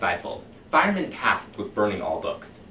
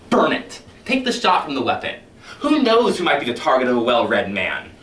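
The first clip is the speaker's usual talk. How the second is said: a smooth, menacing captain talking his men round; silky, sinister fire captain addressing his firemen; Captain Beatty lecturing; 3 semitones higher than usual. Acted.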